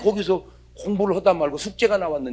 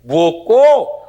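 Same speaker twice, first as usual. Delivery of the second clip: startled wife; 3 semitones higher, 6 dB louder, slower than usual. Retold or imitated. A wife at the sink startled by her husband's hug, loud. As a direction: jump at the sudden hug.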